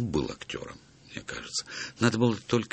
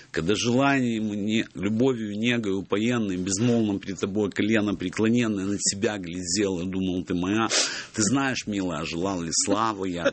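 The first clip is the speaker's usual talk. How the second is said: put-on Odessa Russian accent. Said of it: "И читал я приблизительно так".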